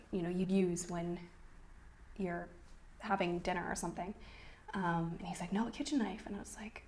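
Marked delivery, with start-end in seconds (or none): 5.5-6.2 mild, higher-pitched correction; retold correction. Husband corrects wife on the knife, mild retold correction. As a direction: quote him correcting, fairly softly. Husband repeats his request.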